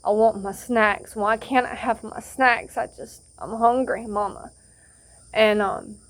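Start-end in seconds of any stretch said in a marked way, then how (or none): 0.0-4.5 imitating whining kids. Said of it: "they're crying, they're squalling".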